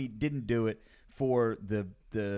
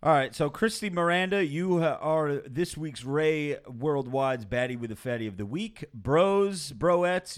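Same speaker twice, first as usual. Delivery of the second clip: louder, higher hype shout-out; hype announcement; 4 semitones higher, 4 dB louder than usual. Acted. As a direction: proclaim the winner to the crowd. Announcing the winner to listeners.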